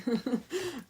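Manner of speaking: short high laugh; a burst of delighted laughter; surprised laugh. Real, not acted. Laughs after good reading.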